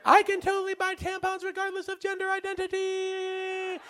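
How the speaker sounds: hushed mock self-praise; inner smug voice. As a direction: think it proudly to yourself. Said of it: "In my head, I'm like".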